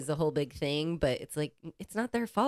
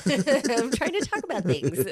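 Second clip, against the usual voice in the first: put-on frustrated baby; 5 semitones higher, 4 dB louder than usual.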